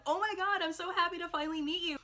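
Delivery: high, gushing fangirl squeal; starstruck fan. Retold or imitated. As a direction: gush like meeting your idol. Fan meeting idol.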